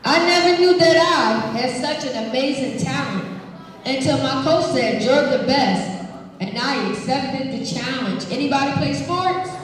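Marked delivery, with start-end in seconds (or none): 0.1-8.3 put-on expressive read-aloud to kids; reading to children. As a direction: read it warmly to the class. Reading picture book aloud.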